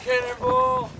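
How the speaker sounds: high excited shout; cannonball yell. Real, not acted. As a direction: yell it as you jump. Kid jumping in, calling out.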